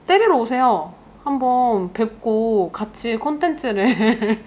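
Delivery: playful dare that ends in laughter; amused laughing invitation. Real, not acted. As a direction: invite them over, breaking into a laugh. Laughing off a violent comment.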